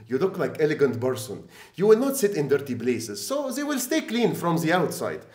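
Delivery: put-on Egyptian accent.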